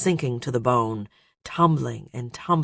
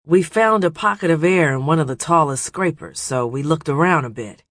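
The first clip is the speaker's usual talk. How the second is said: excited; 3 semitones higher, 4 dB louder than usual. Acted. Hap tells of the find.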